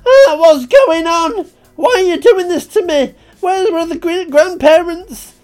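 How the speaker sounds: very loud, high panicked scream. Acted. Narrator pinned down in the dust, panicked screaming. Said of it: "Then I just screamed".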